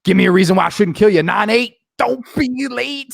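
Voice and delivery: lightly hammed-up movie villain; mock menacing countdown rhyme; Matthew McConaughey. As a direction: drag out the rhyme, then rush the finish. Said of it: "Matthew McConaughey walks in the room".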